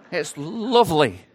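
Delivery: playful put-on Yorkshire; Yorkshire accent. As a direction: savour it in mock Yorkshire. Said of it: "That was more of a Yorkshire accent".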